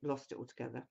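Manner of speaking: croaky voice after a sore throat. Real, not acted. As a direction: talk through a croaky, recovering throat. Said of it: "excuse my croaky voice".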